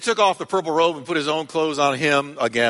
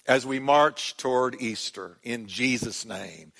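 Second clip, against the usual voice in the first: prayer. Acted. Pastor praying for the church, hushed and reverent.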